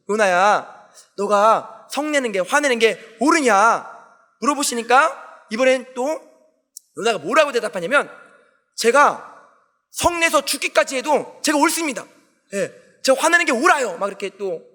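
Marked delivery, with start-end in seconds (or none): 0.1-3.9 slow, lightly voiced God; God questioning. God asks Jonah about his anger, lightly voiced, slow questioning. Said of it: "하나님께서는 또 물어보십니다". 8.8-14.0 mildly acted defiant retort; talking back. Jonah insists to God he is right, mildly acted talking back. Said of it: "막 따지는 겁니다".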